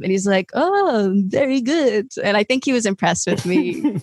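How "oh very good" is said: higher, put-on French accent. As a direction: imitate an approving French guide. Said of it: "has a French accent".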